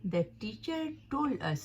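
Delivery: "The teacher told us" read slowly, word by word; teacher repeating the example slowly; slow example sentence. Shown as a demonstration. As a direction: dictate it slowly. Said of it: "तीसरा है".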